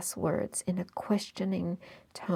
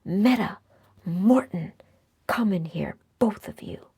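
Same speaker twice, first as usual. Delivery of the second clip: louder, calling down the corridor; loud shout; 3 semitones higher, 8 dB louder than usual. A narrator's reading. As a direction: bellow for them across the house. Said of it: "shouted down the corridor".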